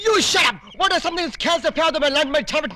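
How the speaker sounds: mock Jackie Chan foreign gibberish. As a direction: rattle off garbled English in a mock Jackie Chan accent. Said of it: "నీ Jackie Chan భాష ఏంట్రా".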